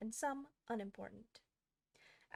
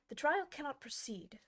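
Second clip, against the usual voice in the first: grave voice; 6 semitones higher, 6 dB louder than usual. A narrator's reading. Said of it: "in a very grave voice".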